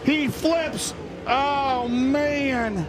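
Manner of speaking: high shocked cry. Real, not acted. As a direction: gasp it out at the crash. Crash happens live.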